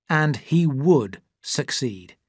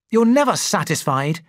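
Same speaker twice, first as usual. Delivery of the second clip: sharp, louder outburst; shouted; 4 semitones higher, 4 dB louder than usual. Acted. Andrew snaps at his wife, a hammed-up angry shout. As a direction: snap back in anger. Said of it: "he shouted".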